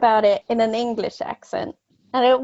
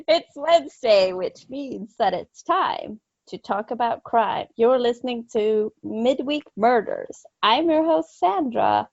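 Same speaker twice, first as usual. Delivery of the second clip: put-on English accent. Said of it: "My English accent".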